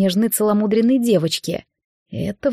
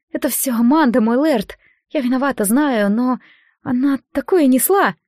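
anxious pleading; 4 semitones higher than usual. Acted. Frightened girl pleading excuses.

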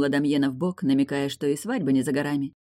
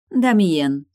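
sharp, much louder call of his name; scolding call; 2 semitones higher, 8 dB louder than usual. Acted. Bride scolds rude friend, loud name call. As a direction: rebuke him by name.

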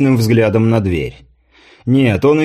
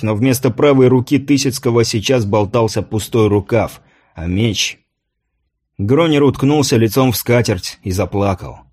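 usual speaking voice

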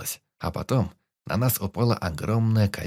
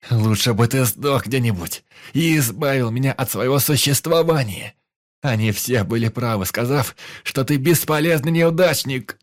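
loud, higher contemptuous shouting; cruel angry tirade; 4 semitones higher, 6 dB louder than usual. Acted. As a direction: pour out every grudge. Hero keeps screaming insults.

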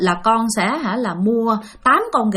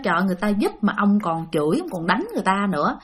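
softer, mild reproachful grumble; grumbling; 2 semitones lower, 5 dB quieter, faster than usual. Retold or imitated. Mother scolds father for hitting the spirits, soft grumble. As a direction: chide your husband under your breath. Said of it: "mẹ cũng ngằn nhằn".

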